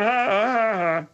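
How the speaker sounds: light, falling fake ha-ha; imitated singsong laugh. Bud defending how he laughed, singsong imitation. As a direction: play down your own jeering laugh. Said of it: "come out like a song".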